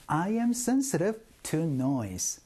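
very slow model sentence, every word spaced out; slow drill. Shown as a demonstration. Teacher leading the class drill, very slow and clear. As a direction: spell it out slowly for learners to repeat. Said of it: "시작".

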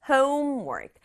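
homework in just two beats, home-work; two-beat pronunciation. Shown as a demonstration. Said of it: "두 박자로만 발음해요".

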